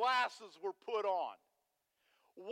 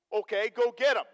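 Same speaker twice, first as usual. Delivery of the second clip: commanding king; 9 dB louder than usual. Retold or imitated. King sends army after Elisha.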